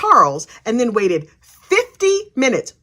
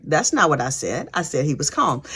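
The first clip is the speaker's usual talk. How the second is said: gruff cop imitation; 8 semitones lower, 5 dB quieter than usual. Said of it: "the cop is like".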